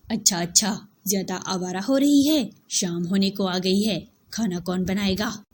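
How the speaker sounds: mock her as a bossy elder would; taunting elder. Yasmin taunts Aliya. (ताना मारती जेठानी)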